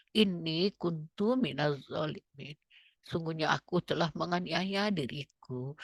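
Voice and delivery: quiet prayer said almost under the breath; soft inner recitation. Shown as a demonstration. Preacher shows the congregation a quiet soul-prayer. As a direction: murmur it softly as if the soul speaks. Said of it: "nggak pakai suara".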